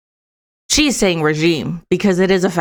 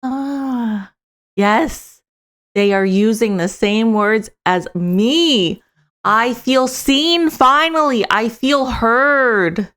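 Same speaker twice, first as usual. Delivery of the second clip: higher, slow mock relief from a listener who feels seen; imitating a voter finally hearing her own words, higher and slow; relieved voter; 4 semitones higher, slower than usual. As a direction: play a grateful listener, drawing out "seen" and "heard". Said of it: "It's like".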